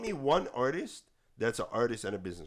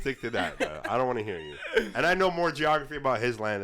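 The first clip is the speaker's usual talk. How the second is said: amused, louder telling-off; laughing dismissal; 4 semitones higher, 7 dB louder than usual. Real, not acted. Host waving off cohost's geography, laughing. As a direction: brush him off through a laugh.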